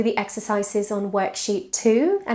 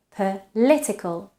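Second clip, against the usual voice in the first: "political" stressed on the second syllable, -lit-; shifted stress. Shown as a demonstration. Teacher showing how stress moves, "political" stressed on -lit-. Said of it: "stress changes position in the syllable".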